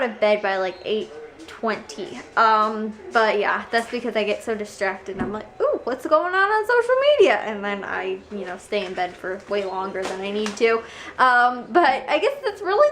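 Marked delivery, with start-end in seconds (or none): 5.6-7.4 excited. Retold or imitated. Imitates her distracted morning self.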